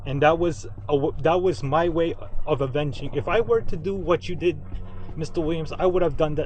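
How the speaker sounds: loud, heated rant; worked up and loud. Real, not acted. Ranting about revenge on Biden.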